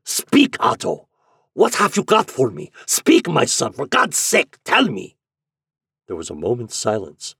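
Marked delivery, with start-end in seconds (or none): 0.0-5.2 put-on high, loud, impassioned old father; frantic German-accented pleading; vibrating, desperate demand. A narrator's reading. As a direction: beg and command your son at once. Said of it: "the old man's vibrating accents".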